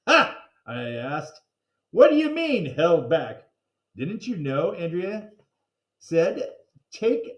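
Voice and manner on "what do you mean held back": alarmed question. Acted. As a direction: blurt it out in alarm. Alarmed kid hears bad news.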